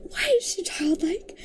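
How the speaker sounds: hushed, incredulous aside; exasperated whisper. Real, not acted. Reviewer whispering her disbelief about the heroine.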